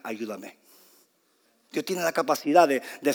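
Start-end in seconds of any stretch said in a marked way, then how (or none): 0.0-0.6 low, hushed plea; quiet plea for help. Acted. Preacher quoting a simple prayer to God, quietly. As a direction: say it small and low.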